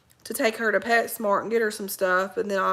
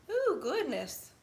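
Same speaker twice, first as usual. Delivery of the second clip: drawn-out ooh; 6 semitones higher, 5 dB quieter, slower than usual. Real, not acted. Reacting to the dog, slow and high.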